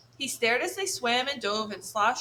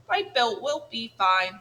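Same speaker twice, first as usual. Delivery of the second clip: friendly voice; 3 dB louder than usual. Acted. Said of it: "using a friendly voice".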